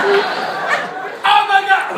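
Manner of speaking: long, high-pitched drawn-out cry of shock; panicked shout. Retold or imitated. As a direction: scream it slowly, way up high, in horror. Panicked exclamation in car.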